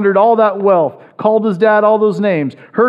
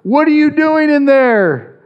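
calling in; 6 semitones higher than usual. Retold or imitated. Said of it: "outside and calls in".

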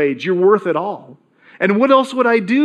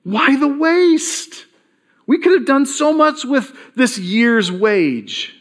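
slow, higher, disapproving sigh of a question; indignant scolding; 5 semitones higher, slower than usual. Acted. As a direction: draw out the complaint like a calculator. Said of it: "like we oftentimes think".

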